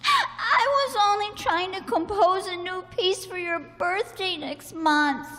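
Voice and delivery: tearful explanation through sobs; crying. Acted. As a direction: explain while still weeping. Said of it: "you never cry".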